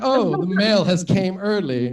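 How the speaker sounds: slow, lightly mimicked wildlife voiceover; nature documentary narrator. Comic imitates narrator watching his sex tape, mock documentary narrator. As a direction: draw it out like a mock documentary commentary. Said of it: "the guy who's, like, narrating the whole thing".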